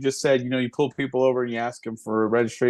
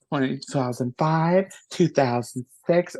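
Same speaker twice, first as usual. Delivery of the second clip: put-on old lady voice; slower than usual. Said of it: "little old lady".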